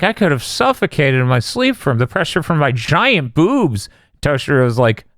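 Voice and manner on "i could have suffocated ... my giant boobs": imitating Rangiku. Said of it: "She's like".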